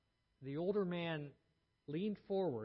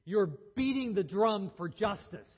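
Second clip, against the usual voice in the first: loud, higher, passionate declaration; said loudly; 3 semitones higher, 7 dB louder than usual. Retold or imitated. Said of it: "said loudly".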